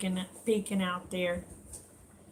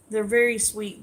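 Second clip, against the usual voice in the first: a louder burst of praise, falling at the end; gushing; 6 dB louder than usual. Real, not acted. Streamer gushing to viewers about their sweetness, louder. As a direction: say it out loud with delight.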